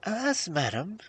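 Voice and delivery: high, mildly tearful plea; a touch of tears in a high voice; tearful princess. A narrator's reading. Princess appealing to an old woman, mildly tearful. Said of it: "with tears in her pretty eyes".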